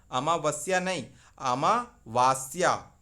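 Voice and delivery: अमावस्या (मा के बाद छोटा अ) नहीं, अमावास्या (वा लंबा); वा को खींच कर अमावास्या कहें; wrong vs right. Shown as a demonstration. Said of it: "अमा नहीं अमावास्या". (अमावास्या में व पर बड़ा आ)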